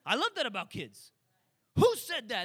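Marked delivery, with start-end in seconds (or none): 1.8-2.4 loud, higher preacher call to the crowd; booming question. Retold or imitated. Preacher calling out to his congregation, booming and higher. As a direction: throw the question out to the whole church. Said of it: "retold exchange".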